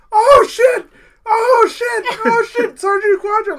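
high panicked shrieking; screaming. Retold or imitated. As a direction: scream in sudden terror. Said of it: "he started screaming like a bitch".

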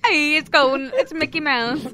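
loud, botched mouse impression; mock it with an Italian-sounding swagger; Mickey Mouse. Mocking a friend's mouse impression, loud put-on voice. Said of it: "I'm not Italian".

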